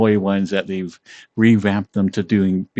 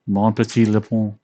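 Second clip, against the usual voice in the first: English-accented French. Shown as a demonstration. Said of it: "shitty French".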